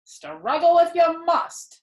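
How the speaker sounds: a hint of a mocking rat; sneering rat. A narrator's reading. Templeton poking up from the straw, slow and sly.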